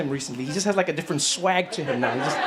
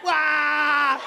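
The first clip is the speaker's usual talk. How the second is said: mock shocked wail; 9 semitones higher than usual. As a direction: cry out like your world just broke. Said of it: "he was like".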